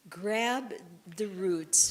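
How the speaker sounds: loud command. Real, not acted. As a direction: bark the cue with energy. Instructor giving a vigorous command.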